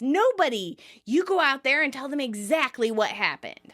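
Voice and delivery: light acted shout, sending him out to confess; mock shout. Monica orders Ross to go tell everyone, mock shout. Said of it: "Monica shouts".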